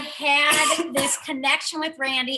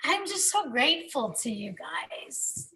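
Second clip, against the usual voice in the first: getting emotional; 3 semitones higher than usual. Real, not acted. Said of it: "I'm getting emotional".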